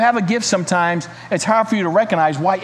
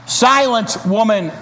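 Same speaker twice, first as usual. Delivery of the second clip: scolding cry; slower than usual. Acted. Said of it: "cried a cave dweller".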